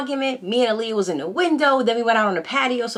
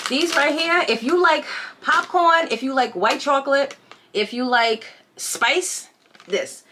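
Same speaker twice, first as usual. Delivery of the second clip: excited product pitch; 5 semitones higher, slower than usual. Real, not acted. Hyping a snack to viewers.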